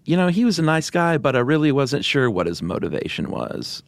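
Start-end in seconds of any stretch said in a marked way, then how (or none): 0.0-2.3 high, rising uptalk voice; Valley Girl upspeak. Retold or imitated. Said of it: "That was a great impression".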